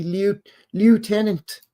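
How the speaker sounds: lieutenant sounded out high as "lyoo-TEN-ant"; lieutenant drawn out with no F sound; phonetic reading. Shown as a demonstration. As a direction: read lieutenant as spelled, high and slow. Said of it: "you look at it phonetically".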